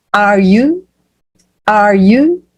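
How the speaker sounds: "Are you" climbing on "you"; rising intonation. Shown as a demonstration. Teacher drills the start of a question, rising intonation. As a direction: lift "you" at the end like a question. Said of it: "essa entonação sobe".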